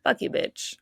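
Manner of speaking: soft unvoiced whisper of a curse; whispered insult to the follower count. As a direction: hiss it under your breath at the screen. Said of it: "I'm like".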